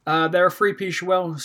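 tripping over the words; fumbled line. Real, not acted. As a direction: stumble and lose the thread. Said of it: "I just lost my tongue completely there".

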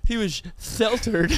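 "sheltered" said as "feltered", SH softened to F or TH; teasing lisp on "sheltered"; mock lisp. Friend pities the lisper in jest, mock-lisping.

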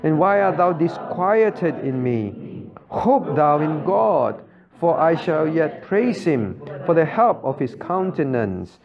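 slow, solemn reading of the psalm aloud; slow scripture reading. Real, not acted. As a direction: read it slowly together with the congregation. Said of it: "let's read together".

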